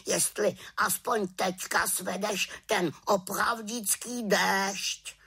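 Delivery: high, reproachful raven voice. A narrator's reading. Raven scolding the little witch over her rain, high reproachful croak.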